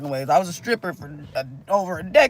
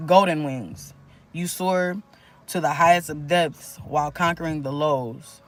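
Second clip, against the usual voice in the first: inspirational reading. Acted. Reads channeled uplifting message.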